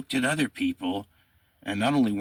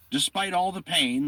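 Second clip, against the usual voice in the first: higher-pitched, emphatic reading of an account; dramatic quote reading; 10 semitones higher than usual. A narrator's reading. History host quoting an execution account, dramatic reading. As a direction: read it out like a vivid eyewitness report.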